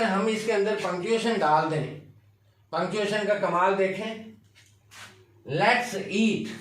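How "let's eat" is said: "Let's eat" as a closed phrase before a pause; "Let's eat" kept together, then wait; pause for the comma. Shown as a demonstration. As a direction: stop after "eat" as at a comma. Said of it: "comma".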